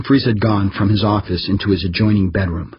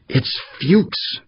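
higher woman's voice, calling out; urgent shout; 8 semitones higher than usual. A narrator's reading. Farrar warning Humphreys, urgent shout. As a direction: shout the name to warn him. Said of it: "she shouted at him".

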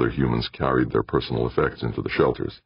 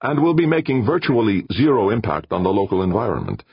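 proud; 7 semitones higher, 3 dB louder than usual. Acted. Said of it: "with some pride in his voice".

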